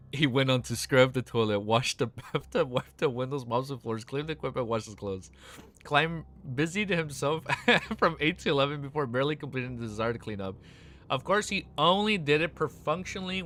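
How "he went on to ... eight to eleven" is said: louder reread, breaking into laughter; laughing. Real, not acted. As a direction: read it again, cracking up at bathtub. Re-read while laughing.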